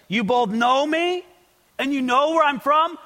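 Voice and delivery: rising, questioning challenge; mildly ironic. Retold or imitated. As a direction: quote it as a lightly doubting question. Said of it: "he was being ironic or sarcastic".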